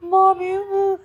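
imitating a crying call for attention; mock weepy whine. Daughter whining to mom, mock weepy whine. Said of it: "this thing that cries and goes".

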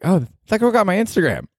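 high, bright-eyed disbelief; mock surprise. Telling the manager, a high mock-surprised squeak. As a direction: pitch jumps up in amused shock.

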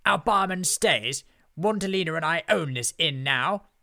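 high, loud, grand witch; domineering witch. A narrator's reading. Witch claims the inn from the friends, loud and domineering. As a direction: declare ownership with haughty force.

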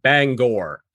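"Bangor" with a full, clear -gor ending; correct Bangor pronunciation. Shown as a demonstration. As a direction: say "Bangor" as bang-gore, both syllables given weight. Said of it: "Don't ever make that mistake".

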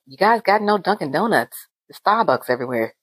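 imitating a Boston friend's accent; lightly done Boston accent, complaining; a mild Boston accent griping about coffee shops. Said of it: "That was a good accent".

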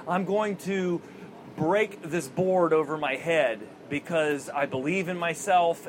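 halting, slow and hesitant; unsure of himself. Retold or imitated. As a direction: mildly imitate a man lacking confidence. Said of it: "he doesn't have a whole lot of confidence".

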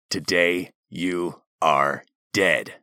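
low, slow, clipped words through teeth; through clenched teeth. A narrator's reading. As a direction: clip each word, jaw clenched. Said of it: "He clipped each word through clenched teeth".

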